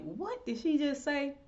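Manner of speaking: can't believe what she just heard; stunned disbelief. Retold or imitated. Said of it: "And I was like".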